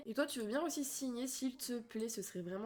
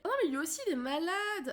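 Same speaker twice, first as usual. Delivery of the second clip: dismayed outburst; 7 semitones higher, 6 dB louder than usual. Real, not acted. Another Sim falls ill.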